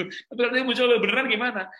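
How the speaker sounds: jauh lebih tinggi dan lebih keras, setengah tertawa; anak kecil cemas. Retold or imitated. Anak bertanya cemas sambil tertawa. (anak cemas bertanya pada ayah)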